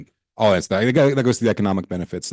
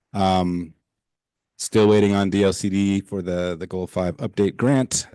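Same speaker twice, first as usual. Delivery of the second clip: tired. Real, not acted. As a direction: drag through it, exhausted. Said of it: "I too am tired".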